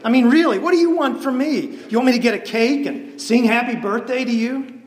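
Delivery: mean. Retold or imitated. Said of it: "Why do you have to be so mean?".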